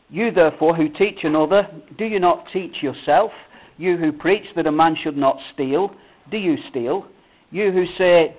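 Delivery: scripture reading. Acted. Pastor reading Romans to the church, in a measured reading voice. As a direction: read the passage out to the congregation.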